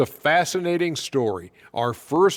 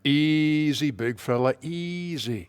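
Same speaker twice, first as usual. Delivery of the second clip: teasingly calming, trailing off softly; soothing; 3 dB quieter, slower than usual. Real, not acted. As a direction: settle him down, softening to a hush. Host calms a riled co-host.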